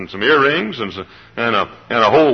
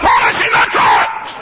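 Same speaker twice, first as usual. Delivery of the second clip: slow, much lower, loud Polishing the trucks; mock stubborn shout, lower; low shouted answer; 13 semitones lower, 4 dB louder than usual. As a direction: bark it back stubbornly. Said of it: "I said".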